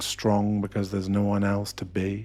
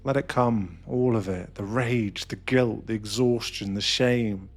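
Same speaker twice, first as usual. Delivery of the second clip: impassioned build, slowing at the peak; building intensity. Acted. Urging the listener to let the rage crash through, building intensity.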